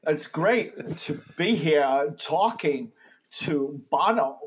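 slow, halting delivery with odd pauses; Christopher Walken. Pretend. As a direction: stretch it out, breaking the phrase in strange places. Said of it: "wanted to talk like Christopher Walken".

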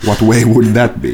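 slow, even, lightly voiced killer; a hint of cold menace; menacing Chigurh. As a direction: Javier Bardem's Chigurh at the counter, lightly done. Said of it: "saat oon gas station proprietor".

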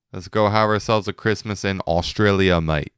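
lightly put-on Australian accent. Rich folks planning Christmas down south, mock Australian accent. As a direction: attempt at an amateur Australian accent. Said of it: "great Australian accent".

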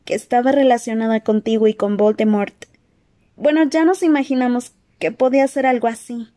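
put-on worried girl, earnest and gentle; Hermione voice.

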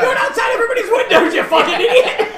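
high, loud, laughing mock outrage; hammed-up scolding shout; mock police yelling. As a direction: holler it like a cop catching a prowler. Acts out police catching window-shouting Santa.

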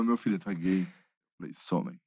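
low, soft, understated delivery; subdued retold exchange. Mother and son coming out, subdued retelling. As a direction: drop low and quiet for the confession.

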